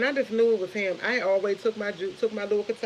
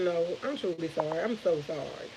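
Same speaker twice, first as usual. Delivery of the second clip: lower, softer retold apology; sincere apology; 3 semitones lower, 6 dB quieter than usual. Mom retelling her apology to her son, sincere and soft. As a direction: apologize gently, dropping pitch and volume.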